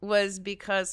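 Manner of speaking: fast, jittery from espresso; rushing on too much coffee; over-caffeinated. Real, not acted. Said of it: "I'm, like, so caffeinated right now".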